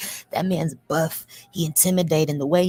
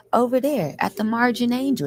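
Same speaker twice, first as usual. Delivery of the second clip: sugary, sweet, pretty-sounding voice; 7 semitones higher than usual. Retelling what a soft-voiced inmate said: imitating a soft, pretty voice. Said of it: "That's how he talk. Soft ass, pretty ass voice".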